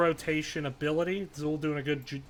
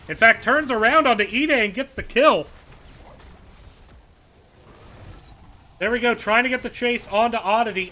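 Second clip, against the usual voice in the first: rising hype, fast and loud calls; excited play-by-play; 4 semitones higher, 3 dB louder than usual. Real, not acted. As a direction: call the team fight at full excitement. Excited casting of team fight.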